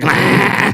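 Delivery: mock undead dog noise; imitated creature noise. Host voicing a dug-up pit bull, mock creature noise. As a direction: make the zombie pit bull's noise.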